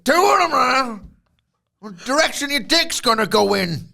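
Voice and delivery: high, loud mock wail; hammed-up disbelieving cry; exasperated tag partner. Co-host plays bewildered tag partner, high mock wail. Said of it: "how would his tag partner react".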